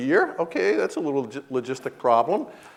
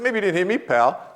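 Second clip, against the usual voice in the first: higher, pointed version ending on pal; pointed quote; 4 semitones higher than usual. Retold or imitated. Man admits his own retort, said pointedly. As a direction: lift the challenge, then drop on pal. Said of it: "I said".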